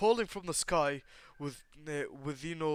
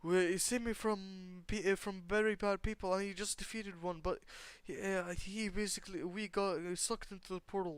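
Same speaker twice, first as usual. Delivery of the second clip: put-on tearful girl; 5 semitones higher than usual. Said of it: "while she mid sobbing".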